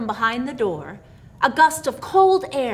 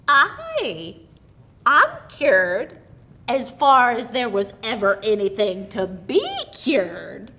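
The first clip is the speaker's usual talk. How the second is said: put-on much higher, louder old woman's voice; high, gleeful old woman; merry old aunt; 7 semitones higher, 6 dB louder, slower than usual. A narrator's reading. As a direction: crow it out with pent-up glee. Aunt reveals she wasn't deaf.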